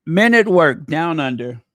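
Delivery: loud, punchy band announcement; booming title call; announcer call. Shown as a demonstration. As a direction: call it out like a radio DJ. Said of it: "when you say it like that".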